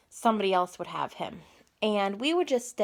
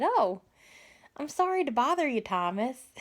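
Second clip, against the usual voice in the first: lightly voiced friend, higher pitch; retold friend's apology; 6 semitones higher than usual. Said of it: "she said".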